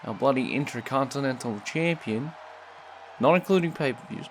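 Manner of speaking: put-on American accent. Commentator opening the show in an American accent. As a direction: welcome the crowd in a mock American accent. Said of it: "why I'm using the American accent".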